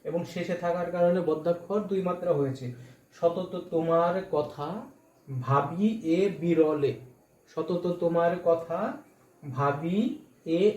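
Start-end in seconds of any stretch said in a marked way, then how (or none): 3.1-10.7 সতত তোমার কথা ভাবি এ বিরলে read slowly, syllable by syllable; demonstrating meter on the poem, slowly; slow recitation. Shown as a demonstration. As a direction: draw out সতত তোমার কথা to show the beats. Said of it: "উচ্চারণ করছি".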